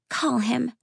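put-on high little girl voice; child voice. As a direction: speak like a serious young girl. Child urging.

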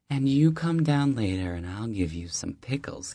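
high, friendly deli-lady voice; warm older neighbor. Acted. Deli owner welcoming the new neighbor, high and friendly. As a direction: greet him like an old friend at the door.

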